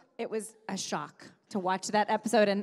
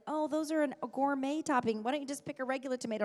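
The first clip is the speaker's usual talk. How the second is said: lightly voiced stingy boyfriend, quick at the end; a hint of a penny-pinching boyfriend scoffing; mock cheapskate boyfriend; 5 semitones higher than usual. Mocking her ex over the pizza topping, lightly voiced stingy boyfriend.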